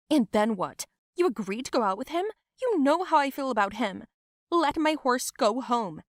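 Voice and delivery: angry confrontation. Acted. Fight with cousin.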